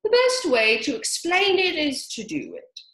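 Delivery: high, loud eager explanation; Dodo explaining. A narrator's reading. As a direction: show off the idea. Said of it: "said the Dodo".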